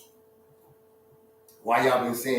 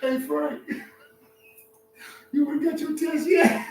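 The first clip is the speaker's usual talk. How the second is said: high, laughing mock shout; shouting lion. Lion shouts to Frank about his test, high and laughing. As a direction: yell it across the plain, cracking up.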